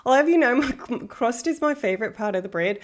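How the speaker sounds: put-on Australian, lifted in pitch; chatty hammed-up Australian accent. Streamer bantering and thanking gifters in an Australian accent. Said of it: "y'all get an Australian Alicia".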